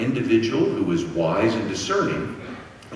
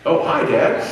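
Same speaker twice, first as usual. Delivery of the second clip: put-on dazed kid; 7 semitones higher, 6 dB louder than usual. Kids finally notice dad.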